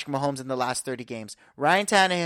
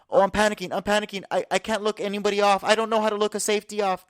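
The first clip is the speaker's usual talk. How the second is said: mock panic, lightly acted; Zach Wilson scared; 2 semitones higher, faster than usual. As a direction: play a rattled quarterback, stammering a little. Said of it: "it's my Zach Wilson being scared impression".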